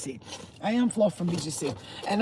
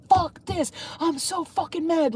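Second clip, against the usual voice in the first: higher-pitched imitation of being mad; mock frustration; 8 semitones higher than usual. Speaker voicing viewers in struggling times, mock exasperation. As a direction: act out someone fed up. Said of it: "where you're like".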